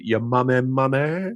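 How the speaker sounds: imitated accent, drawn out, lifting into a question; Seb. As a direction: copy a co-host's accent, ending on a questioning rise. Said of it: "How does Seb say it?".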